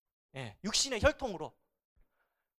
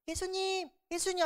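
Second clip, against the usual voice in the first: timid call; 9 semitones higher, 5 dB quieter than usual. Shown as a demonstration. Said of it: "할까요?".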